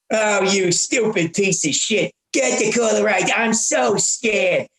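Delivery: slow, mocking scorn; sarcastic huffy Saul. Saul taunts the tough guy on the phone, slow sarcastic scorn. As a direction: drag out the fake fear sarcastically. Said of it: "getting more huffy".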